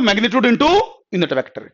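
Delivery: "magnitude into unit vector" said very slowly; slow dictation. Shown as a demonstration. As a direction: answer slowly while writing it down. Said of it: "क्या लिख सकते हो". (लिखते हुए बहुत धीरे बोलना)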